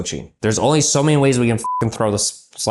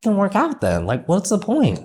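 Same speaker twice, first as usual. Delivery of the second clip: retold exasperated quip; 7 semitones higher, 3 dB quieter than usual. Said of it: "bro, I was like".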